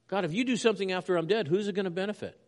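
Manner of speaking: high, quick, pointed challenge; crying out honestly. Retold or imitated. Preacher voicing the psalmist's honesty toward God, crying out. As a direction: fire the blunt question up at God. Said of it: "he, he cries out".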